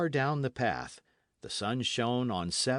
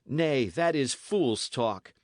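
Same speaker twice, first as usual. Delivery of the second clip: roughly; 3 semitones higher, 4 dB louder, slower than usual. Acted. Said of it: "said Dick roughly".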